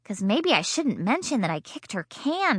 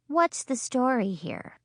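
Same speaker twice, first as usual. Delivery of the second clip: suspicious; 4 semitones higher than usual. Acted. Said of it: "very suspicious".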